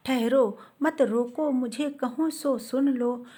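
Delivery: slow, measured verse reading; unhurried, metrical poem recital; poetry recitation. Acted. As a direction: recite the Hindi verse slowly, line by line. Recites verse before explaining it.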